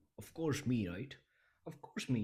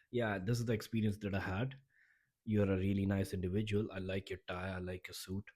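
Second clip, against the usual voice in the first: confident speaker. Shown as a demonstration. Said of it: "the second is me, the A person".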